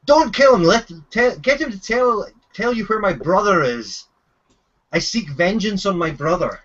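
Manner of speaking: high urgent call easing down; mock shout from a prisoner, starting high; acted shout. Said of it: "You hear him shout to you".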